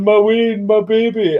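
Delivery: put-on high cooing baby talk; cooing wife. Wife comforting the scared puppy, high baby-talk coo. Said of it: "Sue was sitting hugging him, going".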